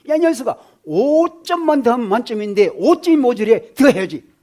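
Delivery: loud, pushy scolding of a son; a strict father yelling at his son over grades; stern father scolding. Retold or imitated. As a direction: bark at the boy for missing five points.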